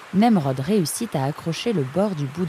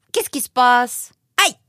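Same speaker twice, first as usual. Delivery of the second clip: startled; 8 semitones higher, 6 dB louder than usual. Acted. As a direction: caught out by sudden darkness, ending in a yelp. Lights suddenly out, stepped-on paw.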